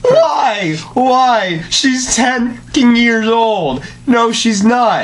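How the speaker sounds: outraged protest. Real, not acted. Friend protesting the fic.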